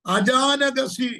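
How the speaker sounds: slow, drawn-out tongues syllables; speaking in tongues. Real, not acted. Prophet breaking into tongues mid-prophecy, slow and drawn out. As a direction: let the tongues roll out slowly, stretched and loud.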